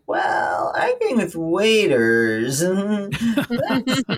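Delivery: wry quote half-laughed through; laughing, amused. Retold or imitated. Retelling her answer to the friend's worried call, laughing. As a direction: chuckle through your own dry reply. And I was like.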